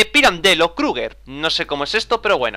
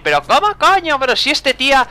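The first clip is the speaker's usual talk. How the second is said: frustrated player; 8 semitones higher than usual. Retold or imitated. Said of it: "porque va a decir".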